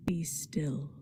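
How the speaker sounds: a breathless hushed whisper; soft unvoiced command to be still. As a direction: breathe it out like a secret at a grave. Hushed line in poem reading.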